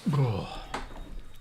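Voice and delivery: weary aching sigh; pained sigh. Real, not acted. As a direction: let out a sore sigh. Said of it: "everything hurts".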